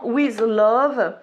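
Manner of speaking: English with a French accent. Real, not acted. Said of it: "avec mon super accent".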